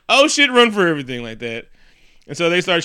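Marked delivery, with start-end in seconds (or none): 0.1-1.2 loud, raised-pitch imitation of alarm; mock panicked yell. Men fleeing as attackers crash in, mock panicked yell. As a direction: call it out in comic panic.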